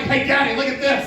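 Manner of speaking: put-on eager three-year-old showing off; excited little boy. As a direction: call out like a kid showing off to dad. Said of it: "Three years old, and he's like".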